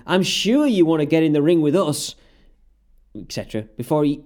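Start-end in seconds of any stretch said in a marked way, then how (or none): 0.1-2.2 sarcastic. Retold or imitated. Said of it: "again sarcastically saying".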